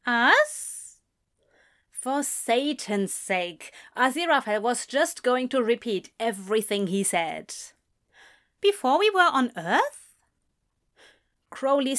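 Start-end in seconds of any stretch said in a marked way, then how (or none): 0.1-1.0 higher, louder questioning repeat; puzzled echo. Acted. Other character echoes the mutter questioningly. 8.6-10.2 higher-pitched questioning tone; puzzled guess. Acted. Confused character guesses the meaning.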